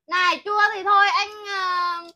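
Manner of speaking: teasing. Real, not acted. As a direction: egg him on to quit. Teasing him to give up.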